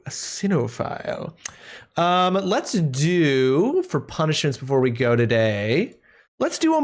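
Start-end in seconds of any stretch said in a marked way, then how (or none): 0.0-1.3 whispered relish. Acted. Savouring a fancy word.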